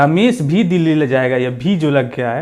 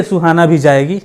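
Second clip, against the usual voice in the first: "भी" पर ज़ोर, तेज़ आवाज़ में; सुहाना भी जाएगी — "भी" को ठोककर; stress on भी; 3 semitones higher, 5 dB louder than usual. Shown as a demonstration. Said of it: "ये ज़बरदस्ती है". (ज़बरदस्ती दिखाते हुए "भी" पर दबाव)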